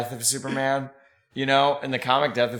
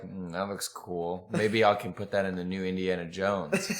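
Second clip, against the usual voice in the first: lazy mumble; 3 semitones lower, 6 dB quieter than usual. Retold or imitated. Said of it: "he was like".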